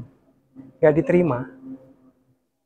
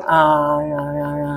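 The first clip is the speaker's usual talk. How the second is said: low, drawn-out aah loosening the jaw; mouth warm-up "aah"; 5 semitones lower, 6 dB quieter, slower than usual. Shown as a demonstration. Speaker demonstrates mouth exercises to congregation, warm-up aah. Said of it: "bisa gerak-gerakan mulut".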